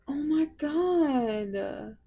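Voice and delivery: slow, high, deflated sorrow; real sadness. Real, not acted. Reader tells viewers she is sad about the dead bug, slow and mournful. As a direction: let it sink in slowly, grieving. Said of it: "I'm so sad".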